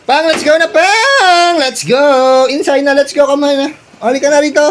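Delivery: loud, high calls to come inside; calling out. Real, not acted. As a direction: shout for them to come in. Calling family inside loudly.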